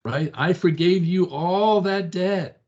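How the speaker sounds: stern master rebuking. Acted. Pastor voicing God rebuking the wicked servant. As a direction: scold the servant, building then fading. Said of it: "And he says".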